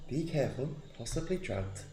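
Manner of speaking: soft, discreet in-character warning; hushed warning. Acted. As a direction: quietly warn a companion. Secret warning sent by Message spell.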